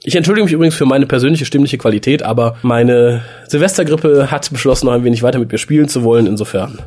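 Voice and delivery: stuffy, head-cold voice; talking through a cold; blocked nose. Real, not acted. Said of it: "etwas verrotzt klingender Sprecher".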